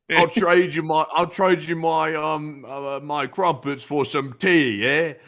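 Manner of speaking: bossy mock-British bargaining; British marmot. Marmot demanding tea for crumpets, bossy British accent. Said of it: "all of our marmots are British".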